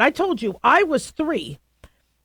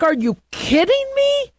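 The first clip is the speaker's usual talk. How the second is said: put-on high, indignant little-kid voice; three-year-old; 14 semitones higher than usual. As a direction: squeak it out like an outraged toddler. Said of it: "as a three-year-old, I was like".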